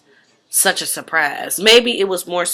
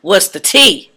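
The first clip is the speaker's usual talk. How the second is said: nosy gossip voice; 3 dB louder, slower than usual. Retold or imitated. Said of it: "I'm using this voice".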